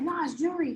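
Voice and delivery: "jewelry" said as "jool-ree", two syllables; Southern "jewelry". Retold or imitated. Georgia guy correcting her, saying "jewelry" as "jool-ree". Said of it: "And he's like".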